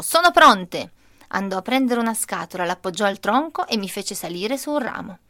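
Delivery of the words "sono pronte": grandpa's glad announcement, higher and louder; announcing. Retold or imitated. Grandpa tells the child the cherries are ripe, exclaiming. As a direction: call it out proudly. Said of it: "annunciò".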